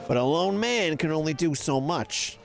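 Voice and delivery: lightly voiced New York Italian trader; a hint of a shady New York Italian dealer's pitch; New York Italian accent. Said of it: "Like, New York Italian accent".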